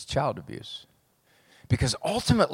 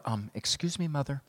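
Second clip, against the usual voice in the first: put-on prim little girl; 3 semitones lower than usual. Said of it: "five-year-old girl walks up to her mother".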